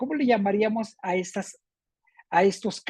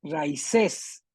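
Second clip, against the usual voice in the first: "Raíces" run as rai-CÉS, end stressed; stress shifted off Í; 3 semitones lower than usual. Shown as a demonstration. Teacher offering a choice, "Raíces" stressed on the end. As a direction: push the stress of "Raíces" to CES. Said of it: "Con acento o sin acento".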